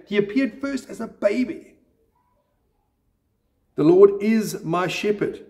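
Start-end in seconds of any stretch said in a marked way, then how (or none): 3.7-5.4 "is" lifted out as the strongest word; stress on IS. Shown as a demonstration. Preacher showing the confidence about this sentence, stress on "is". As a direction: state it firmly, leaning on "is". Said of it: "we can place different emphasis on different words".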